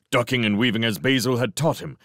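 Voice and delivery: ordinary delivery, nothing marked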